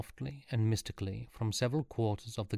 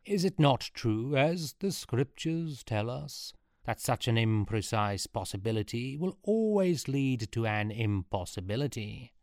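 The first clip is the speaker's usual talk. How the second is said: lightly voiced solemn priest; priestly. Robed advisor addresses the court, lightly priestly. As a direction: intone it a touch like a priest. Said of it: "spoke priestily".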